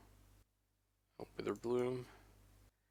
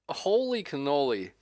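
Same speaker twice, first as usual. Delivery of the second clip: surprised exclamation; 5 semitones higher, 8 dB louder than usual. Real, not acted. Reacting to opponent's luck.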